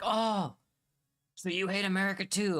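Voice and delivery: high, loud, eager mock French player; mocking French gamer. A gamer mocks the Scottish speaker with a high, loud voice. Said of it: "And they're like".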